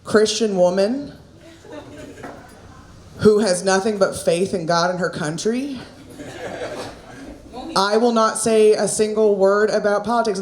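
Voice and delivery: lightly voiced conservative middle-class white woman; a hint of a primly insistent churchgoer; conservative white woman impersonation. Comic posing as apolitical to the audience, lightly impersonated conservative woman. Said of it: "that was my impersonation of a conservative white woman".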